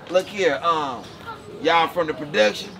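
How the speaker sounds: lightly imitated country Texas guard; a hint of a rural Texas official; country drawl mimic. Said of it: "You ain't gotta talk like that".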